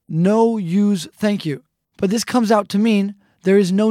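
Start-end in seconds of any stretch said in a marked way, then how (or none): 0.1-1.6 slow literal gloss. Shown as a demonstration. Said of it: "So literally".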